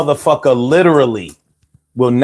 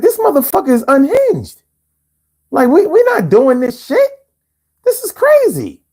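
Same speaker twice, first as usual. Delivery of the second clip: voicing fed-up conservatives; 12 semitones higher than usual. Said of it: "they're like".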